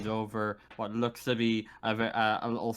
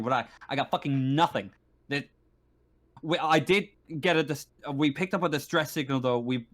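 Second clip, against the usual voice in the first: lightly voiced stern marshal, frustrated; a touch of harassed officer briefing visitors; harried station marshal; 3 semitones higher than usual. Marshal explaining the blocked umbilical, mildly frustrated. Game master plays the busy marshal.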